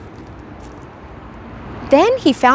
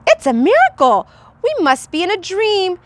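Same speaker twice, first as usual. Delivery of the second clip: amazed shouting; 5 semitones higher than usual. Acted. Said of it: "They shouted".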